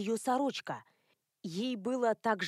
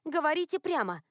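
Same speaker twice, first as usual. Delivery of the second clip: angry demand; 6 semitones higher than usual. A narrator's reading. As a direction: demand bluntly. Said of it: "рассердилась она".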